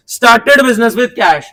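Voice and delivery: started business with cash read very slowly, word by word; slow, deliberate read. Shown as a demonstration. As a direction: read the entry slowly, one word at a time. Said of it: "ध्यान से देखना". (एंट्री धीरे-धीरे, शब्द-शब्द पढ़ना)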